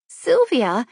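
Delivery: dismay. Acted. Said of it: "she asked in dismay".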